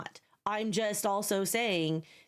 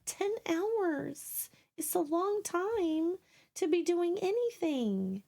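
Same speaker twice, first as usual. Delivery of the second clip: slow; 8 semitones higher, slower than usual. Real, not acted. Drawn-out exasperation.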